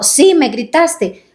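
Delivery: mock insistent accusation. Wife insisting to husband he yelled, slow and high. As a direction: stretch it out like a stubborn wife. Acted quarrel, insisting reply.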